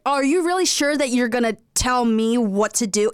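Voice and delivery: mock sass, lightly put on; overwordy sassy. Mocking a wordy child actor, trying to be sassy. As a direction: imitate someone trying too hard to be sassy. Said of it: "like, sassy, but they've chosen too many words".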